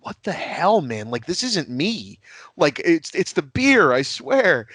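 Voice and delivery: protesting. Retold or imitated. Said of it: "And I'm like".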